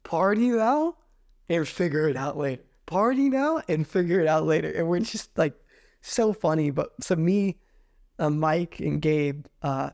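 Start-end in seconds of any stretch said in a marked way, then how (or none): 0.0-4.7 lightly voiced Spanish accent, broken English; a hint of Spanish accent, carefree. Spanish friend Pablo urges them to party, light Spanish accent. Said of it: "Spanish accent, broken English".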